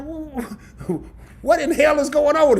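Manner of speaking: startled whoa breaking into a laugh; half-laughing disbelief at the smoke; retold shock. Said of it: "And I'm like".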